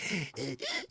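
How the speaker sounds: mock wheezy gasping; imitated wheeze. Joanne realizes she's pregnant, mock wheezing gasps. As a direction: gasp in short mock wheezes.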